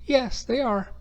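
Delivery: "yes" pitched well up, then falling; an eager, upbeat classroom "yes, they are"; a high, cheerful model answer; bright model answer. Shown as a demonstration. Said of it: "In this case".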